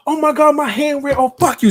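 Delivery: mock girl hurt and angry. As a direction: nurse the sore hand, then spit out the curse, high. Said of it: "And she was like".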